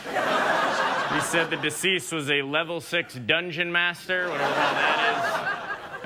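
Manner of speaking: lightly voiced bored reporter, laughing through it; mock field reporter. Reporter Jack Burton filing a careless live report. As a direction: shrug it off like a jaded reporter. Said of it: "Jack Burton at the scene".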